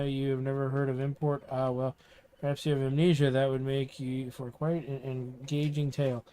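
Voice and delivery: a hint of a pompous self-introducing mayor; lightly voiced town mayor. Mayor welcomes the Cleaner of the Dust to town, lightly voiced.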